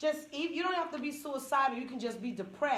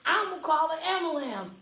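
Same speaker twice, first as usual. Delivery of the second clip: louder, higher laughing threat; threatening friend; 5 semitones higher, 4 dB louder than usual. Retold or imitated. Friend to speaker, a laughing threat. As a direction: warn him while laughing. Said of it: "She said".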